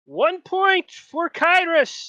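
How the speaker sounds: very high, slow, ringing announcer; half-elf show host. Acted. Half elf running the show awards a point, high and drawn-out. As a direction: sing out the score like a game-show host. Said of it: "a half elf that's kinda running the show".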